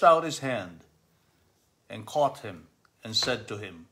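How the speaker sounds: reading scripture aloud to the family; measured scripture reading; gospel reading. Acted. Reading the gospel aloud to the family, measured.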